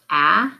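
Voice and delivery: a as the short vowel in lack; isolated vowel sound. Shown as a demonstration. Teacher naming the vowel to swap, a said alone as short "aah". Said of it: "change the vowel sound".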